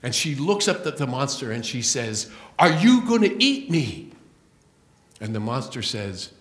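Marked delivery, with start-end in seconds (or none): 2.6-4.1 frightened cry. Acted. Dreaming woman confronts the monster.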